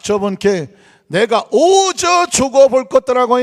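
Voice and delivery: hammed-up Jeolla dialect reading. Shown as a demonstration. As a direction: read scripture in a broad, folksy Jeolla accent. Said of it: "먼저 전라도 사투리로 시편 이십삼 편을".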